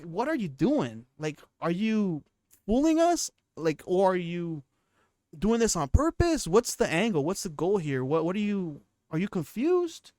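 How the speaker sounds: incredulous questions jumping up in pitch; acted-out disbelief, voice leaping on key words; mock bewildered questioning. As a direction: question him like a baffled fan. Acting out baffled fans questioning Theo.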